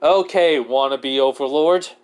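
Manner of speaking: mildly angry, loud opening jab; irritated mock address; a little mad. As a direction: push out the first word, then taunt. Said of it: "kinda get mad a little bit".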